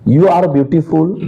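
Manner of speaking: very slow, each word laid out for the class; slow teacher example; slow example sentence. Shown as a demonstration. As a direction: spell the phrase out slowly like a dictation. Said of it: "जैसे हम बोलेंगे".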